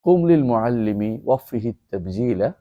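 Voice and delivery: slow, measured Arabic verse recital; slow verse chant; poem recitation. Shown as a demonstration. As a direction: recite the couplet slowly, savouring each word.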